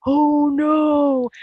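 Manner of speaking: high, loud cry of dismay; mock alarmed shout. Co-writer reading margin comments aloud, mock alarmed shout. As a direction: exclaim it like reacting to a plot twist. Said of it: "comments she makes".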